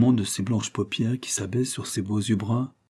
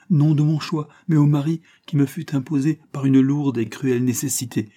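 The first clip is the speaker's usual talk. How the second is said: rising, louder, insistent plea; pleading outburst; 5 semitones higher, 3 dB louder than usual. Acted. A young wife pleading with her guardian, voice rising. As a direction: press him hard, voice climbing higher.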